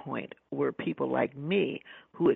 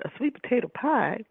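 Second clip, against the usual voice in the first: incredulous; 8 semitones higher, 5 dB louder than usual. Retold or imitated. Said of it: "looked at me as if I was, uh, out of my mind".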